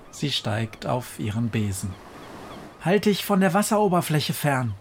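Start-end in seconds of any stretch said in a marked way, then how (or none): 2.8-4.7 raised, higher call of warning. A narrator's reading. Witch Befana calls a warning to the crow, raised. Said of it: "ruft sie".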